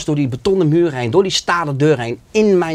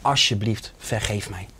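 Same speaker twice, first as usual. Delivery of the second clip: pleading for forgiveness. Retold or imitated. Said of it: "Ik zei".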